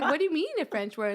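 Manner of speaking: high, quick incredulous question; retelling her own shocked reply; disbelief. Retold or imitated. Retelling the Paris interview, asking in disbelief. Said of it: "that's exactly what I said".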